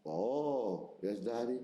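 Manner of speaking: low, hesitant, cautious little answer; timid daughter. Retold or imitated. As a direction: answer warily, afraid Daddy is angry. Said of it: "I need to approach Daddy with caution".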